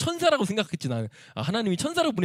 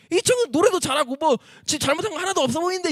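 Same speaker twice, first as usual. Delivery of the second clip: high, insistent acted defence; man shouting indignantly; 10 semitones higher, 3 dB louder than usual. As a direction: protest loudly on the young man's behalf. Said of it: "막 삿대질하는 소리 지르는 거야". (청년을 편들며 높게 따지기)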